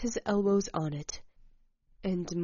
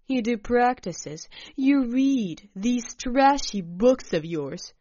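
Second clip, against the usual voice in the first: loud, scornful lecturing; condescending; 4 dB louder than usual. Acted. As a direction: talk down to her. Alec scolds narrator condescendingly.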